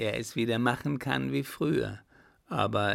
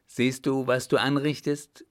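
sharper, slightly raised angry reproach; doubled anger; 4 dB louder than usual. Acted. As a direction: scold her for the torn shirt. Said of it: "meinte er mit verdoppeltem Zorne".

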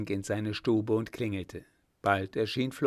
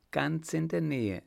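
smiling; 6 semitones higher than usual. A narrator's reading. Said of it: "sagte die Baronin lächelnd".

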